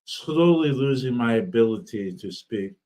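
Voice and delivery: speech thick from a swollen tongue; talking through a swollen, sore mouth. Real, not acted. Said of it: "My, my tongue is swollen".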